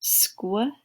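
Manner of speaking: sounds stretched then blended into words; phonics blending drill. Shown as a demonstration. Teacher drilling a class on blends, slow and clear. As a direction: sound it out slowly for young readers.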